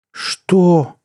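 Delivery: high, loud-ish startled question; shocked outcry; gasping in shock. A narrator's reading. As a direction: gasp it out, aghast. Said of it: "ахнул Манду".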